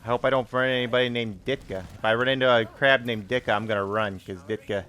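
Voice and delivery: put-on thick Chicago Bears fan accent. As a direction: hold the Chicago superfan voice. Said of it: "this accent".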